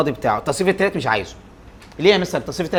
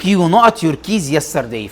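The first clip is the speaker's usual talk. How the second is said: slow dictation; much slower than usual. Shown as a demonstration. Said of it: "teacher reads exercise sentence".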